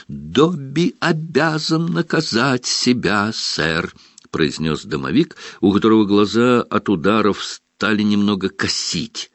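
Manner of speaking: high, slow, humble elf voice; house elf voice. Acted. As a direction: speak as a meek house elf. Dobby speaks.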